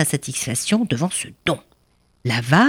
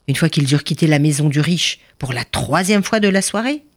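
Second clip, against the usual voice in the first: ordinary delivery, nothing marked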